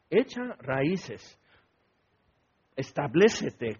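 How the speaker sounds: Echa raíces drawn out very slowly; slow emphasis. Shown as a demonstration. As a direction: lean on Echa raíces word by word. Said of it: "Eso es muy importante". (Echa raíces, muy lento y enfático)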